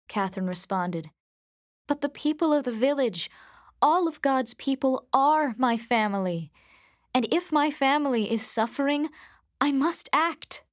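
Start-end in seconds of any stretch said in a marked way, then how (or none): 1.9-10.6 lightly voiced daughter pleading her case; higher-pitched, mildly impassioned appeal; earnest daughter. Daughter pleading with her parents for the villagers, earnest.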